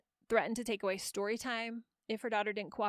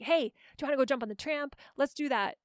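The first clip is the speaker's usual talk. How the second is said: playful invitation; 3 semitones higher, 3 dB louder than usual. Shown as a demonstration. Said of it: "use this playful energy".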